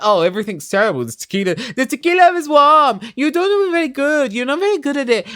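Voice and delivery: high, loud whiny mock voice; mocking Carrie. Vlogger imitating Carrie complaining at the party, high whiny mock. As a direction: whine it like a spoiled complainer. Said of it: "you were like".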